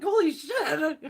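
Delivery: laughing holy shit; laughing exclamation. Retold or imitated.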